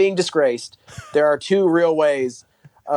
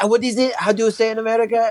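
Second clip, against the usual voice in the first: higher-pitched put-on hesitant questioner; lightly mocking impression, pitched up; mock TV guest; 6 semitones higher, faster than usual. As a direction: imitate her fumbling for the word. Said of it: "she's like".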